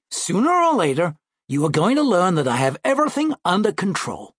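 lightly voiced, cocksure seventh grader; confident schoolboy brother. Brother assuring his sister he's in control, lightly voiced confident boy. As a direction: reassure her with boyish certainty.

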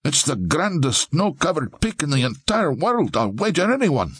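Scottish burr, boasting brightly; Scottish accent. A narrator's reading. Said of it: "in a breathless Scottish burr".

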